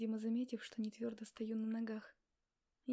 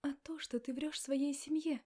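pointed, slightly raised accusation; accusing; 4 semitones higher, 4 dB louder than usual. Acted. Wife accusing him of lying to family, raised voice. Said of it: "обвинила я".

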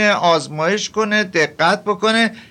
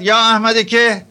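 retold call out; 4 semitones higher, 3 dB louder than usual. Sheikh summoning Ahmad-e Meh before the disciples, mild retold call. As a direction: call the disciple across the room, lightly. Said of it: "بعد فریاد زد".

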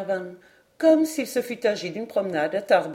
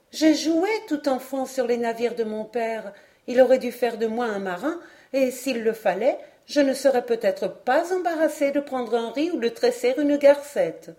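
put-on higher-pitched girl's voice; young woman, enthusiastic; 5 semitones higher than usual. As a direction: proudly tell of a seafaring childhood. (jeune fille enjouée, voix haute)

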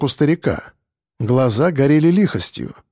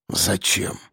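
surprised; 6 semitones lower, 7 dB quieter than usual. A narrator's reading. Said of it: "удивился старик".

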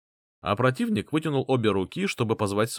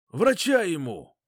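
raised, urgent command; commanding order; 7 semitones higher, slower than usual. Acted. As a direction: bark the order for a medic. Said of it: "приказал я".

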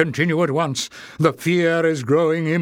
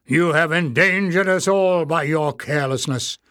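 louder goblin elder snapping; 3 semitones higher, 3 dB louder than usual. Acted. Warren rebuking Clef, snapping. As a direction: snap back at the careless boy. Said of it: "snapped the other".

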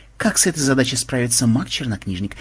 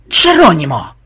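loud charging yell; barked battle cry; 3 semitones higher, 7 dB louder than usual. A narrator's reading. Programmer dives back into the lair, barked war cry. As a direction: bellow it as you charge. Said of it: "рявкнул".

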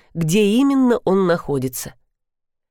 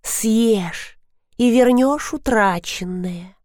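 slow, higher gurgling voice; gurgling creature; 4 semitones higher, slower than usual. Acted. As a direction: gurgle like a river spirit. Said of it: "пробулькала Мавка". (булькающая мавка)

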